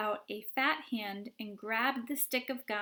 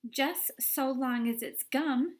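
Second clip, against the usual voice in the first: mild shout; 3 semitones higher, 5 dB louder than usual. Acted. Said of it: "shouted Violet Beauregarde".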